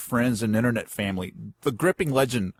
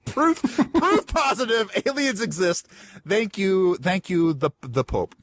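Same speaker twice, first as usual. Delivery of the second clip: put-on Italian accent; 4 semitones higher than usual. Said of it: "you give the Pope an Italian accent".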